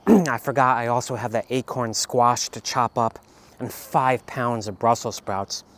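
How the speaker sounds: talking through a mouthful of food; words pushed around a bite; mouth full. Real, not acted. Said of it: "Sorry, my mouth is full".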